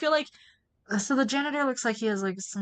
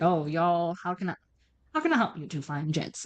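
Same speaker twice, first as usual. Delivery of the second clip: country accent; 5 semitones lower than usual. Shown as a demonstration. Janitor greeting two detectives, attempted American country accent. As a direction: try a half-hearted country twang. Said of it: "I don't wanna give him a country accent".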